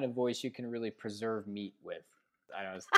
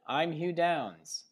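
slow, grand TV anchor voice; Hugh Downs; 6 semitones higher, much slower than usual. Pretend. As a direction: stretch it like a news host. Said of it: "sound like twenty twenty".

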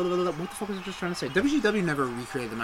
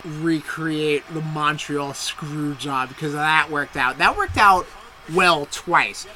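dry sarcastic emphasis, louder; 6 dB louder, slower than usual. Real, not acted. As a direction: lay the sarcasm on thick. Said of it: "sarcastic about screwjob".

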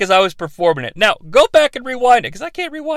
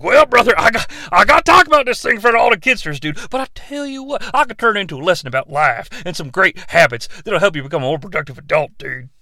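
Hulk Hogan impression.

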